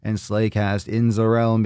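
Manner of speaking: big announcer intro voice; hype show announcer. Acted. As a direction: open the show like a host.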